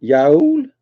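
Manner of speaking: questioning try at Yaul with an ow vowel; attempted y'all pronunciation. Shown as a demonstration. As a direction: send Yaul upward, testing the word. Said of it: "that's not in my accent".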